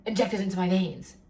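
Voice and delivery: awed whisper. Retold or imitated.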